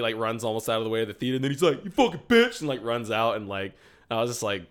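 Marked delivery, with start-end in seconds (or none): 1.8-2.6 higher, louder mock yelp; cowardly parting insult. Kid fleeing the theater, imitated cowardly parting shout. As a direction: throw it back like a coward on the run. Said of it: "like, the coward thing".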